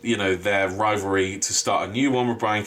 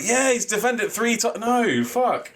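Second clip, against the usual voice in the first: imitating the crowd; 11 semitones higher than usual. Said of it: "Everyone's like".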